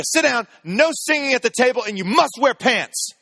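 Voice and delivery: hammed-up mom issuing strict table rules; dead-serious wife. Wife setting rules for the rowdy boys, loud and dead serious. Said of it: "as serious as she could be".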